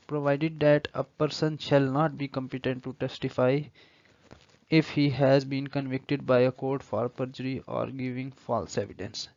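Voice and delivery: slow, deliberate legal reading; careful courtroom-text reading; slow statute reading. Acted. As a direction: read the law out word by word. Reads proviso aloud.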